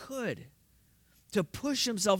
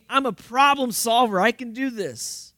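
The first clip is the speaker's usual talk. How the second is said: confident problem solver; 4 semitones higher, 5 dB louder than usual. Retold or imitated. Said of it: "Maybe you think".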